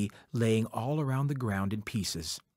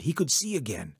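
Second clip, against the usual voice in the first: ordinary delivery, nothing marked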